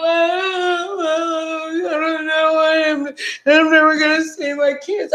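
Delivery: high, wailing mock cry; imitated crying. Imitating her friend despairing over her kids, mock crying. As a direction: wail it in a drawn-out, sing-song sob. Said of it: "No, you were crying".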